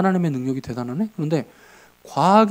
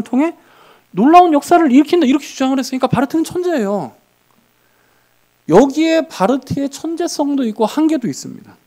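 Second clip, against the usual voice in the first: raised, louder sermon voice; impassioned preaching; 8 semitones higher, 6 dB louder than usual. Acted. Preacher insisting to the congregation, loud and fervent. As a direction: press the point home from the pulpit.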